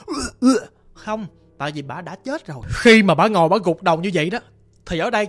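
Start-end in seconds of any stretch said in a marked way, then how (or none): 0.1-0.6 short guttural "ưa, ưa" sound; imitated corpse noise. Telling how the dead woman made no sound, imitated throat noise. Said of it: "phát ra cái tiếng".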